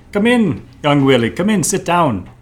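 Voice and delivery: lightly voiced boss welcoming an employee; boss character. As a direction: summon your underling into the office. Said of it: "I'm your boss".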